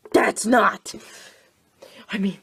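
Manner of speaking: a hushed muttered aside; whispered aside. Real, not acted. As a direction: whisper it under your breath. Aside under his breath.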